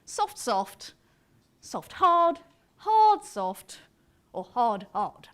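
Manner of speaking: every "hard" punched loud, every "soft" lighter; soft and hard beats. Shown as a demonstration. Lecturer listing four two-syllable patterns, hitting "hard" and easing "soft". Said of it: "four possibilities if you have two syllables".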